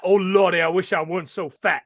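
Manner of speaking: lightly voiced Southern crime lord; Big Daddy, Deep South accent. Mimicking a cartoon crime lord on the phone, light Deep South accent. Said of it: "I thought it was Big Daddy from The Simpsons".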